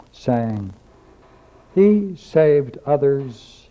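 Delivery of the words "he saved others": slow mocking taunt. Voicing priests mocking Jesus.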